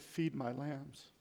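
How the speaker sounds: soft, slow and tender; gentle command. Acted. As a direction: hush it like a shepherd. Jesus answers Peter gently.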